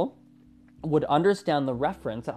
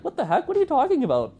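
much higher, building louder mock outrage; indignant disbelief; 10 semitones higher, 4 dB louder, faster than usual. The friend protests to locals who doubt her, mock outraged. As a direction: escalate from puzzled to fully exasperated. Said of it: "My friend's like".

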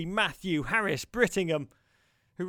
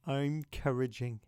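lower, softer, sighing repeat; soft tender echo; 3 semitones lower, 3 dB quieter than usual. Real, not acted. Host lovingly echoes the toddler's phrase to listeners, soft and sighing.

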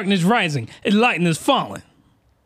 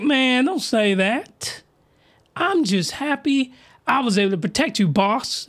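lightly voiced tough character, higher pitch; a hint of a put-on character, pitched up; Beast Mode voice; 5 semitones higher than usual. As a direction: raise the pitch for the character's reply. Voicing Beast Mode character's reply.

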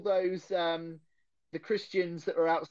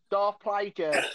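"Darth Plagueis" with "Darth" as "Darv", Essex style; "Plagueis" as "Playzhuh", Essex accent; slower than usual. Shown as a demonstration. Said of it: "It's my Essex accent".

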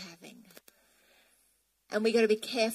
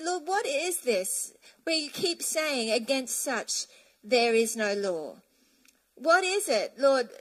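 prayerful question to God; slower than usual. Retold or imitated. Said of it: "I've been trying to understand".

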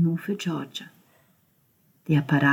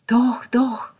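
whisper; 8 semitones higher, 6 dB louder than usual. Acted. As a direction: breathe it gently. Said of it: "flüsterte Georgia".

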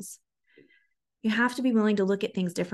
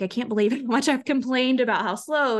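laughing sheepishly; 4 semitones higher than usual. Retold or imitated. Client apologizing, quoted laughing.

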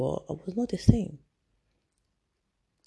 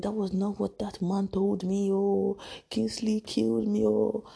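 wailing mother; 5 semitones higher than usual. Retold or imitated. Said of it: "She was wailing".

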